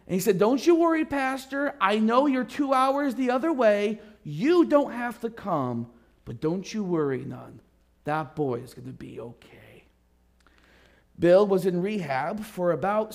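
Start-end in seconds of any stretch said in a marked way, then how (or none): 0.4-7.6 high, loud burst of hearty reassurance; eager reassurance. Retold or imitated. Head elder reassures pastor on phone. 8.0-9.9 soft whisper, almost secret; whispered promise. Retold or imitated. Elder's promise ends the call.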